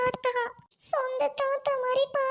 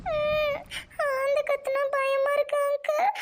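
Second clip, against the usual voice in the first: scared, tearful. Acted. Girl scared of owl.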